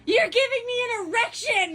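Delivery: high-pitched comic yell; mock shouted outburst. Friend retells a weird moment in the parking lot, mock outburst.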